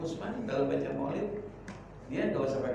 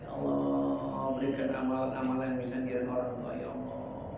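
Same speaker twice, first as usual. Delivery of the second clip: acted remorseful prayer; 4 semitones lower, 4 dB quieter than usual. Preacher voicing a child grieving departed parents, remorseful prayer. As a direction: plead softly to God, stretching the invocation. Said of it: "kena ingat orang tua, belum bakti".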